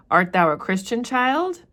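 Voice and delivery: teacher voicing the minister; lightly voiced minister. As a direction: ask if she is Christian. Reads minister's question.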